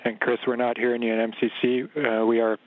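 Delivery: mission control radio call; filtered radio transmission voice; sci fi communicator. Real, not acted. Ground calls station over radio.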